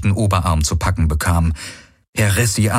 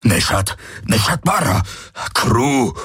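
urgent alien pleading; 3 semitones higher than usual. A narrator's reading. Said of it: "auf sie einredete".

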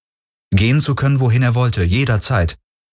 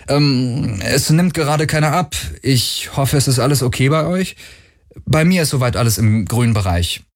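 lightly voiced, higher, chatty young pilot; upbeat voice message; 3 semitones higher than usual. Pilot leaving a message for his crew, higher and breezy. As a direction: leave a breezy, slightly nervous message for friends. Galen records a message to friends.

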